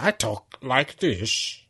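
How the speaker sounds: slow, altered voice; slowly in a changed voice; put-on different voice. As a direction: pretend to be someone else. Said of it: "that person talks like that".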